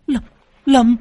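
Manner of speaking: high, loud frantic cry for her son; a mother crying out in terror to her lost child; desperate calling out. Acted. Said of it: "cô ú ớ". (tiếng gọi con hoảng hốt, cao và to)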